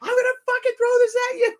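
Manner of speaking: shrieked threat, hammed up; imitating sister. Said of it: "And she goes".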